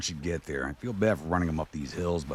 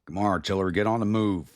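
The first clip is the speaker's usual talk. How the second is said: raised, louder mock command; urging troops on; 4 semitones higher, 4 dB louder than usual. Player to lagging artillery in a game, urging call. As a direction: call out a playful order to hurry.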